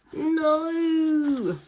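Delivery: high, loud protesting no. Acted. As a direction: cry out in dismay. Crash landing.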